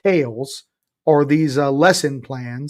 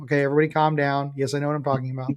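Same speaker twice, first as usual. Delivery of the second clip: joking aside; 2 semitones lower, 5 dB quieter, much faster than usual. Real, not acted. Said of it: "joking aside to the room".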